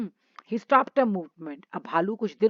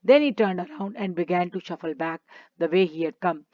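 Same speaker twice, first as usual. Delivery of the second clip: each word spaced out for the class; slow story reading; much slower than usual. Acted. Teacher reading the story to children, slow and clear. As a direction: read the English line slowly and clearly, like a storybook. Reads English story text.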